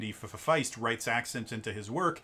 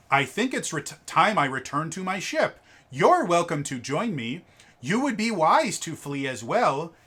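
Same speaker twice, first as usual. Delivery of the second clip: lightly acted formal dialogue, raised pitch and volume; stilted story character; 5 semitones higher, 6 dB louder than usual. Shown as a demonstration. Giving sample dialogue that lacks flavor, stilted character voice. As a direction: read it as a stilted, louder character line.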